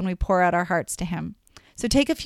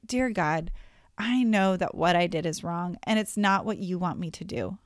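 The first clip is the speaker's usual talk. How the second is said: low, sincere confession to God; heartfelt prayer; 3 semitones lower than usual. Shown as a demonstration. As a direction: pour your heart out in prayer. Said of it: "saying it like you mean it could sound more like".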